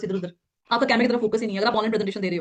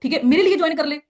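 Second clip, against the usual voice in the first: higher, louder, pleading for a yes; needy pushy tone; 5 semitones higher, 3 dB louder than usual. Shown as a demonstration. Trainer mimics a desperate recruiter begging a prospect, needy and pushy. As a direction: beg the prospect to just join. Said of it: "ये tone आपका pressure create कर रही है".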